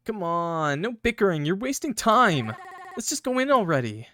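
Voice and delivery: put-on high-pitched girl voice; pushy high girl, impatient; Mary voice. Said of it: "Please don't hate on my Mary voice".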